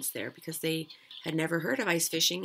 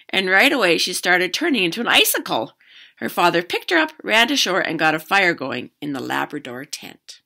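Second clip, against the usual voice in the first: lively read-aloud, louder than chat; story narration; 2 semitones higher, 13 dB louder than usual. A narrator's reading. Teacher reading a fishing story to children, animated narration. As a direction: read a picture book out to children.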